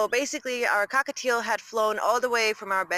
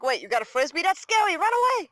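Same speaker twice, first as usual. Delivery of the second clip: voicing the pet; 8 semitones higher, 5 dB louder than usual. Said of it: "She's like".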